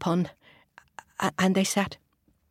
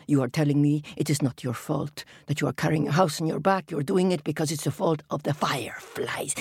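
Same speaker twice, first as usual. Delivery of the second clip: low, stern king; crab king voice; 3 semitones lower than usual. Acted. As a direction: scold like a grumpy king. Crab king questions tortoise.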